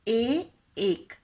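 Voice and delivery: ए, एक drawn out very slowly; slow teacher demo of ए and एक. Shown as a demonstration. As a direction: stretch each sound slowly for the class. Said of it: "एक वाली sound".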